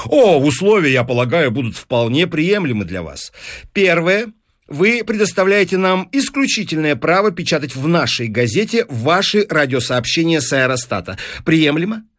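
lightly voiced eager deal-maker, lifted at first; persuasive newspaper businessman. Newspaperman offering the professor money, persuasive. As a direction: pitch it like a smooth salesman. Voices Fines stating terms.

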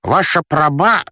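high, slowed curse cut short; straining with effort. Acted. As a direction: heave it out and break off. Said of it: "пыхтел он". (с натугой, высоко, обрываясь)

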